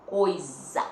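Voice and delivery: "Coisa" with a held buzzing Z, falling; Z sound shown. Shown as a demonstration. Teacher repeating the Z sound for pupils, emphatic. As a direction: lean on the Z in "Coisa". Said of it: "com o som da letra Z".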